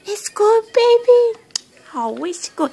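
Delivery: excited cooing. Real, not acted. Cooing over baby while feeding.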